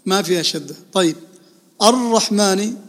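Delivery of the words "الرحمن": الرحمن with a long rolled double R; doubled ra. Shown as a demonstration. Teacher asking about the shadda, rolled double R in الرحمن. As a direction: roll and hold the R in الرحمن. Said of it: "في حرف مشدد".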